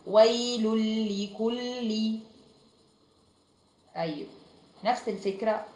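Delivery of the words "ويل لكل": ويل لكل joined as "waylul-likulli"; no n and no nasal hum between ويل and لكل; no ghunna. Shown as a demonstration. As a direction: run ويل into لكل on a doubled l. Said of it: "وبدون غنة".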